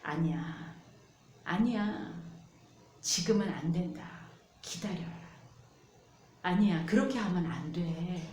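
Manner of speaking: soft, calm refusal as God; gentle God's voice. Retold or imitated. God tells His children to wait, soft and gentle. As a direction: speak softly like a patient father. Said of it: "하나님은 그런데 우리한테 이렇게 말씀하시죠".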